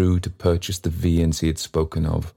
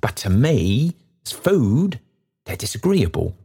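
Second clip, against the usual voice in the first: speaking very loud; 6 semitones higher than usual. Acted. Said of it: "speaking very loud to impress the fact".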